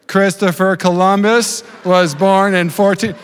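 slow, careful schoolboy speech; overdone slow delivery; deliberately slowed. Retold or imitated. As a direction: drag it out to please the teacher. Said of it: "I want you to talk slower".

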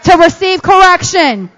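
slow call and response; slow call phrase. Shown as a demonstration. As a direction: lead them slowly.

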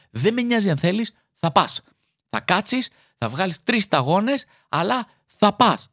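a hint of a stern Greek mother laying down the law; insist, brook no argument; bossy mother. Greek mother scolding child.

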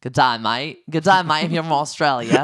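hammed-up Aussie greeting, badly faked; amateur Australian twang played for laughs; bad Australian accent. Shown as a demonstration. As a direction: attempt a broad Australian accent. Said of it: "when I try to do my Australian accent".

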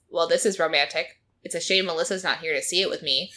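flat robot voice; deadpan like a robot; robotic voice. Retold or imitated. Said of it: "out loud in a robotic voice".

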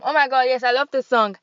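thrilled to find the right song; excited. Real, not acted. Host introducing the music break, excited.

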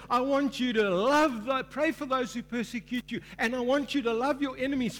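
Jesus' command, belted high and loud; loud proclamation. Acted. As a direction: proclaim it like a rallying cry. Jesus' words proclaimed loudly.

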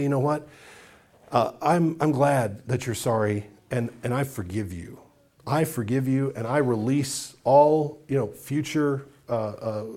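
forgiving someone who apologized glibly; sincere forgiveness. Retold or imitated. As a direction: say it gently and mean it.

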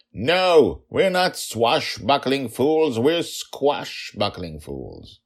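put-on high, loud protesting child; shouting. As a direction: shout back stubbornly, slowing down. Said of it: "raised her hands and shouted".

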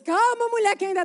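urgent calming. Retold or imitated. Acted calming of crying wife.

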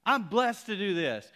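high, loud triumphant declaration; shouted praise. Retold or imitated. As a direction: declare it at full preaching voice. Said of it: "He begins to shout".

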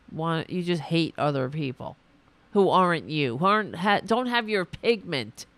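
strained, hoarse ranting voice. Real, not acted. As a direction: push through a hoarse voice. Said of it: "I'm losing my voice".

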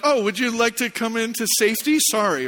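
mildly sheepish offer. Retold or imitated. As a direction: offer it like an embarrassed husband. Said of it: "I sort of sheepishly unlocked".

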